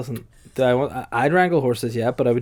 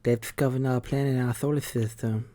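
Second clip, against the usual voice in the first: Harvard expert. Pretend. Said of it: "You're, you're a complete expert from Harvard".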